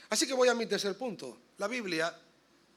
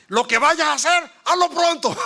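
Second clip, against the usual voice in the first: loud, higher, booming proclamation; mock dramatic reading; 6 semitones higher, 11 dB louder than usual. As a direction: shout the verse like a mock prophet. Acting man reading random verse.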